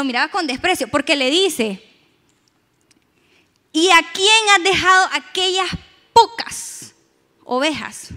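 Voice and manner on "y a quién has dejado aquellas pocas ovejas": mocking scorn. Eliab mocks David.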